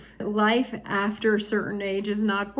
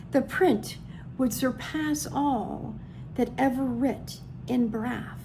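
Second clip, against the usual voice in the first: poem reading; 2 semitones higher than usual. Real, not acted. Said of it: "You want me to try?".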